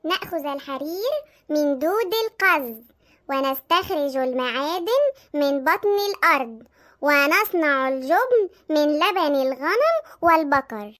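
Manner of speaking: slow, measured recitation in formal Arabic; studying aloud. Acted. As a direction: recite it slowly, drawn out, like a lesson to memorise. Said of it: "انت بتعملي ايه يا سلوى؟".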